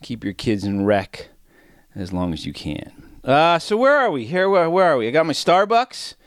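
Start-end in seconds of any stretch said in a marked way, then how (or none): 3.2-6.2 amped up and breathing hard; breathing heavy. Real, not acted. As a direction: talk through heavy breaths. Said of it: "I'm all amped up and breathing heavy".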